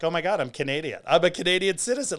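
giddy retold announcement; excited. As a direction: blurt it out, thrilled at the news. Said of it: "I was so excited".

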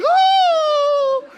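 high, loud, laughing "Oh!"; amazed gasp. Retold or imitated. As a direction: imitate her stunned, giddy surprise. Cashier sees her goosebumps.

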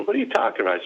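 high-pitched puzzled reply; acted bafflement. Son on the phone to mom, acted bafflement. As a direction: act out total confusion, voice jumping up.

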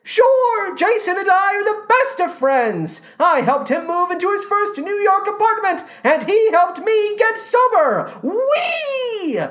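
put-on very high-pitched boyish stage voice; Peter Pan. Peter Pan boasting of friendship with Jason, high put-on voice. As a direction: squeal it out in an excitable put-on voice. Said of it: "and Peter Pan, the character, are friends?".

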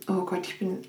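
talking through a yawn; mid-yawn, words stretched out. Real, not acted. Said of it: "ich musste gähnen".

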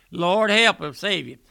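loud plea. Retold or imitated. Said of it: "that's what I tell my folks".

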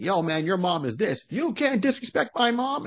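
mock little boy sticking up for his mom; kid defending mom. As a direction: play an indignant little boy, pitched high. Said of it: "It's like".

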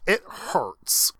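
half-hearted pained cry, no real shouting; mock scream. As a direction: act out a scream without fully yelling. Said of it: "and he's screaming it".

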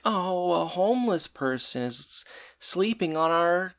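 high, soft, slow cooing; mock pity. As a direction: coo it slowly, imitating sympathy. Mimicking pair finding a sleeper.

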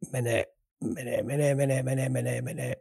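suspense build. Acted. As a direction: stretch it out like a drumroll before the reveal. Teasing suspense before naming team.

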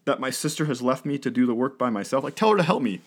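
mock-complaining sister; complaining Martha. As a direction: nag like an overworked sister. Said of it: "Martha starts complaining".

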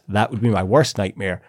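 put-on English accent. Host quotes Kirsty on visiting Scotland, put-on English accent. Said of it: "do an English accent for this".

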